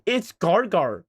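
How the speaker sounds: It's Gargar slowed and drawn out; careful slow retake. Shown as a demonstration. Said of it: "Why are you going pirate?".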